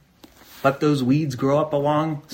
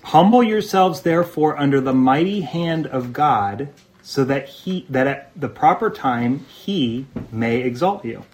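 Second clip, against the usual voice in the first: scripture reading. Acted. Pastor reading scripture to the congregation, emphatic. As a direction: read the verse with weight.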